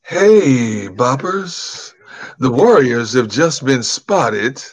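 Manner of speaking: loud, slow hammed-up radio DJ call-out; imitating the radio DJ. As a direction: broadcast the warning like the Warriors DJ. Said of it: "the radio voice she does".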